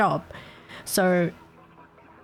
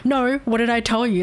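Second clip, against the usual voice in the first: mock scolding; 3 semitones higher than usual. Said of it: "Instead of screaming at someone".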